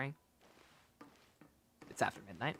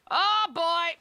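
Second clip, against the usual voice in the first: surprised; 13 semitones higher, 6 dB louder than usual. Real, not acted. Reading journal, exclaims.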